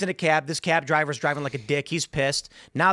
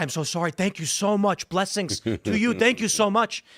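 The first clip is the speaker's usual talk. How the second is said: higher-pitched, imitating stunned thanks; shocked gratitude; 5 semitones higher than usual. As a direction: gush thanks like a startled, contrite driver. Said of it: "He turned around shocked and said".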